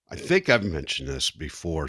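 choking mid-sentence. Real, not acted. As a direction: talk while choking on a drink. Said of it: "I'm choking".

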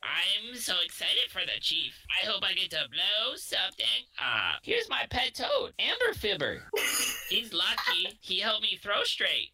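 high excited parrot goblin. Acted. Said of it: "I'm a parrot now".

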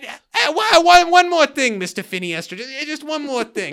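a hint of a gravelly, hesitant detective; Columbo impression. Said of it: "Mister Columbo over here".

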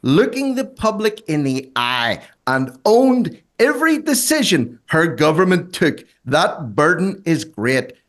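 slow, high, gushing tribute; slow syrupy praise, mocking. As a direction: read it like a sickly fan letter. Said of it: "I almost barfed".

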